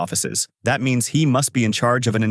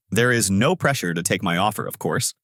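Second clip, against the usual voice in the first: calm; 2 semitones lower than usual. Acted. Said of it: "He says in a calm tone".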